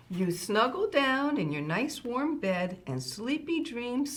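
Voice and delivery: measured, lilting picture-book reading; reading to children. Acted. Grandma Kitty reading a farm bedtime book to children, storytime voice. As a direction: read a rhyming bedtime book to little listeners.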